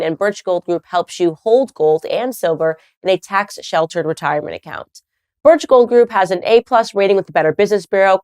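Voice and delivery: sponsor ad read. Acted. Host reads a Birch Gold ad to her audience, punchy promo delivery. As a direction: sell it like a radio spot, bright and pushy.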